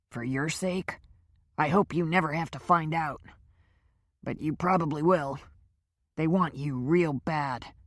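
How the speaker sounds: lightly voiced captive, slowing down on the last words; ominous warning. A narrator's reading. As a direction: warn her gravely, letting it sink in. Powers warning Kendra.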